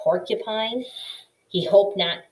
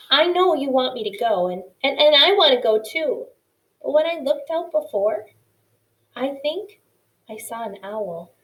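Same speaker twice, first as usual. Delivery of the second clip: higher, hesitant mouse voice; nervous little mouse; 5 semitones higher, 4 dB louder than usual. A narrator's reading. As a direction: stammer it out, frightened. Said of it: "Poppy began after a moment".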